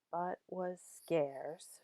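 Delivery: "but was scarce" slow, with SCARCE held long; short-short-long stress. Shown as a demonstration. Teacher demonstrating meter, "but was scarce" with a long SCARCE. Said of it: "short, short, long".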